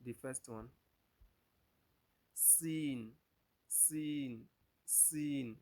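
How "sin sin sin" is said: "Sin" with a thin S and long ee; teacher drills the letter "Sin"; Arabic Seen drill. Shown as a demonstration. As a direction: model "Sin" in separate, even repetitions. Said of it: "Let's pronounce them again".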